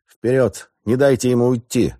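high, loud urgent order; commanding shout. A narrator's reading. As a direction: bark the order. Captain orders pursuit.

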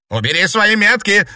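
loud, high snarling shout; bark. A narrator's reading. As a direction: snap it as a threat. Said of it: "рявкнула Гертруда".

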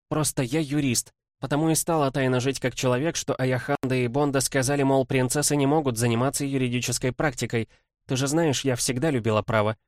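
brisk lawyerly princess voice, lightly voiced; quick, eager legal rattle; young woman voice. Kimbodzha explains herself.

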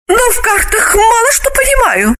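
put-on sweetly sympathize in a high girlish voice; high woman's voice, full of pity; sympathetic Galina. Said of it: "посочувствовала она".

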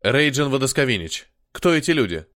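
put-on growled in a heavy Slavic accent. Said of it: "привлекающему внимание славянскому акценту".

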